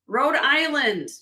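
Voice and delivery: "Rhode Island" said slowly, each word drawn out; slow emphatic repeat. Shown as a demonstration.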